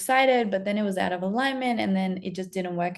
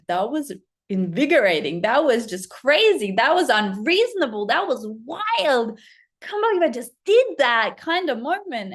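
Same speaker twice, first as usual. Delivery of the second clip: louder and higher, buzzing with the thrill; 3 semitones higher, 4 dB louder than usual. Real, not acted. Telling her viewers about the dare, giddy and excited. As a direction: relive the rush out loud.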